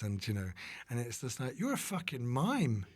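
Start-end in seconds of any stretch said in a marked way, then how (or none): 1.6-2.9 higher, drawn-out disbelief; mock outrage at a silly complaint; retold incredulous outburst; incredulous retort. Acts out own incredulous retort.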